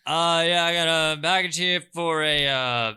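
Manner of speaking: high, impatient courier voice; grumpy delivery man. Acted. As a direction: hurry him, busy delivery guy.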